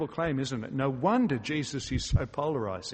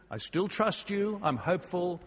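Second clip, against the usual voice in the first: higher-pitched, lightly acted plea of trust; hopeful; 5 semitones higher than usual. Martha tells Jesus she still trusts him, hopeful.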